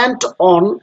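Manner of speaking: and on very slow, with and stressed. Shown as a demonstration. Teacher showing the exception to students, very slow with and stressed. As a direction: stretch and on, leaning on and. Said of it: "and এর উপরে হচ্ছে stress".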